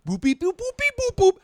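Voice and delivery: high mechanical beeping; robot beeps. Pretend. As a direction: chirp like a robot booting. Robot powering on.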